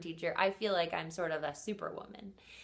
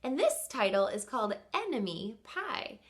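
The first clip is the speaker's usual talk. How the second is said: voicing puzzled kids; 2 semitones higher than usual. Teacher voicing her class's doubt: a lightly puzzled kid. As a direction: play the puzzled listener with a mild mock question. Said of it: "And you might be thinking".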